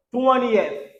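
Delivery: "twentieth" as "TWEN-ee-eth", falling at the end; three-syllable twentieth. Shown as a demonstration. Teacher leads learners in repeating, "twentieth" as "TWEN-ee-eth". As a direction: sound the middle "ee" in "twentieth". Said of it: "on dit twentieth".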